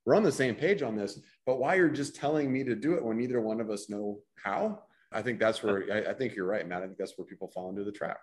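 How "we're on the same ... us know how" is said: a touch higher, pleading employee; lightly voiced frustrated worker. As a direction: plead with the boss, lightly exasperated. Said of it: "the employee is like".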